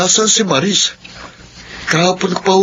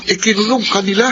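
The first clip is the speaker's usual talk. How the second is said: gulat na tanong; 5 semitones higher than usual. Acted. Shocked at news.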